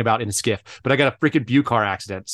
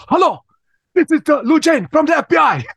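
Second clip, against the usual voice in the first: high, loud mock screaming at a voicemail; hammed-up shout in a Chinese accent; Lou; 6 dB louder than usual. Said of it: "he's screaming at this voicemail".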